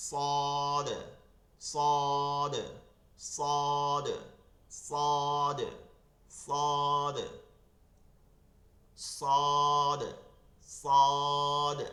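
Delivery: সদ said loudly with a thick, heavy স; Arabic letter demo. Shown as a demonstration. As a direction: drill সদ with a full, emphatic স. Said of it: "স মোটা হবে". (মোটা স দিয়ে জোরে সদ)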